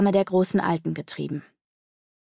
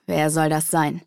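lurking; 3 semitones lower than usual. Acted. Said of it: "fragte Akonada lauernd".

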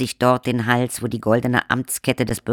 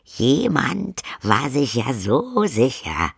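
sulky; 4 semitones higher, slower than usual. Acted. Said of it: "sagte Lacrimosa mürrisch".

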